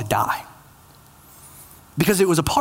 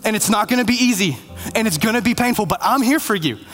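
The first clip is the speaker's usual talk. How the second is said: keen, encouraging welcome in a retold story; eager encouragement; 3 semitones higher than usual. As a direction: urge your friend onward with mild excitement. Friend eagerly greets and encourages Bob.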